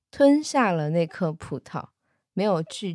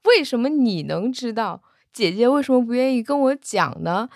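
angry; 5 semitones higher than usual. Retold or imitated. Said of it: "他还很生气".

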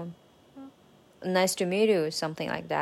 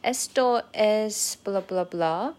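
"Esto es blah, blah, blah" drawn out slowly, lifting at the last blah; rising question intonation; slower than usual. Shown as a demonstration. Learner showing how a statement becomes a question, "Esto es blah, blah, blah" with rising intonation. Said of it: "if you are using the rising intonation".

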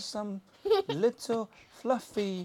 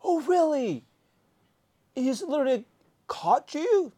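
lightly voiced Pooh; 7 semitones higher, 4 dB louder than usual. Voicing Pooh asking questions.

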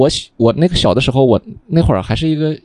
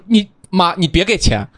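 put-on high, wailing plea of a sobbing little kid; mock crying child; 10 semitones higher than usual. Child begging mom in tears at the barber, mock wailing. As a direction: imitate himself as a bawling child begging mom. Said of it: "嚎啕大哭".

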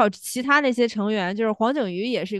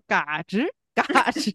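mimicking a rusty creak; creaky rusty noise imitation. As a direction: say it like a squeaking joint. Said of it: "铁锈的那个声音".

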